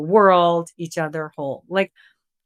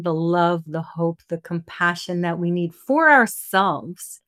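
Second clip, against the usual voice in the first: earnest group prayer, unhurried. Acted. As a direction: call on the guides and angels like a blessing. Closing prayer to spirit guides.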